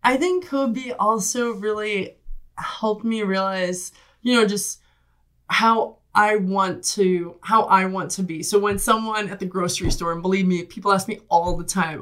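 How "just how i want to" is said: ordinary talk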